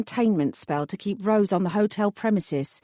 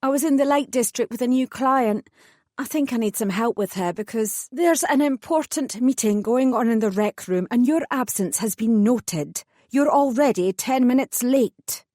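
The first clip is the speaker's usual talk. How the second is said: higher, hurried, insistent; urgent colleague voice; 4 semitones higher than usual. Acted. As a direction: press her to hurry, she's late. Adeline's urgent reply.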